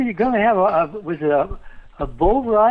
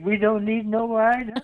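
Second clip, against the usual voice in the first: slow, put-on Southern drawl; Southern accent; 3 semitones higher, 5 dB quieter than usual. Shown as a demonstration. Dad showing off his best accent, slow Southern accent. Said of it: "my best Southern accent".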